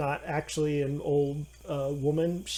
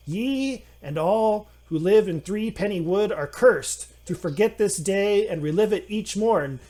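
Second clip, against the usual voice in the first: higher, loud incantation; casting a curse; 5 semitones higher, 6 dB louder than usual. Acted. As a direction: pronounce the curse with grand menace. Gnome casting curse on wood.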